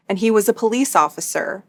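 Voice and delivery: "was" stressed to mark it as past. Real, not acted. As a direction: lean on the word "was". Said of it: "Emphasis on the word was".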